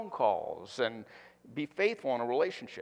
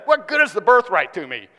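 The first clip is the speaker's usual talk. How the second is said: louder, whiny complaint; drama queen; 5 semitones higher, 12 dB louder than usual. Acted. Pastor mocking Esau as a drama queen, whining. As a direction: sulk and moan for pity. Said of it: "into the drama queen".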